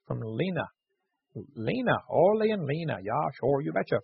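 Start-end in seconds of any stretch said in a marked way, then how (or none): 1.6-4.0 put-on playful Minnesota accent; joking nod to Minnesotan speech. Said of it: "for you Minnesotans up there".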